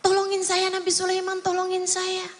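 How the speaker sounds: a touch of mock dread; acted frightened plea. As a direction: plead for help as a scared young man, lightly acted. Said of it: "gemeteran dia".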